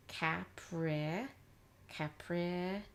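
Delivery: "Capri" as "cap-rih" with short vowels, rising; blending chunks. Shown as a demonstration. Teacher blending the two chunks together, said chunk by chunk. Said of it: "blend the two chunks together".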